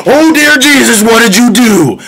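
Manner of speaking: high appalled exclamation; shocked Odysseus. Retold or imitated. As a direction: react in disbelief at the crew. Odysseus wakes to feast.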